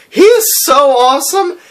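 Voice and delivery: high, gushing fan squeal; high excited fangirl gush. Retold or imitated. Fangirl reaction retold.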